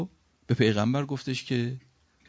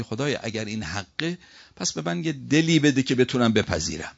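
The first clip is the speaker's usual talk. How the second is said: raised, louder imagined plea; pleading prayer; 3 semitones higher, 3 dB louder than usual. Pretend. Preacher voicing the prayer one expects, pleading. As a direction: ask earnestly, as if praying.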